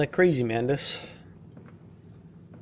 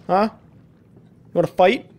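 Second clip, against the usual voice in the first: slow, louder taunting dare; mock challenge; 4 semitones higher, 3 dB louder, much slower than usual. Daring the game monster to fight, slow and loud. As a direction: drag it out like a dare.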